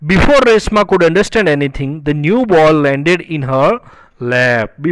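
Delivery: very slow, word-by-word textbook reading; read-aloud lesson text. Acted. Teacher reading a story line to students, slow deliberate read-aloud. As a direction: read it out slowly, stretching each word.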